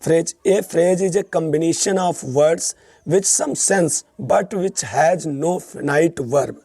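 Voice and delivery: definition read out very slowly; teacher dictating a definition; slow dictation. Shown as a demonstration. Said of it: "teacher reading a definition".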